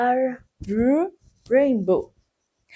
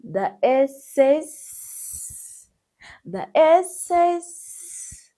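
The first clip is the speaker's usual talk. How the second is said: slow teasing; 3 semitones higher, 3 dB louder, much slower than usual. Shown as a demonstration.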